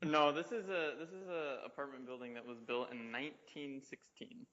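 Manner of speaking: echoey room sound; talking in a big echoing space; in a parking garage. Real, not acted. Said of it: "sounds like you're in a parking garage".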